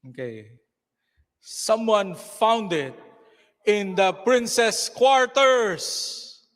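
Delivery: slow, drawn-out storytelling; measured stage narrator, stretching key words; story narration. A narrator's reading. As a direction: narrate slowly with suspenseful pauses.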